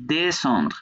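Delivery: "descendre" with de as its own syllable; falling "descendre", de then sandr. Shown as a demonstration. Teacher explaining the syllables, "descendre" with a distinct opening de. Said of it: "কারণ এটা syllable".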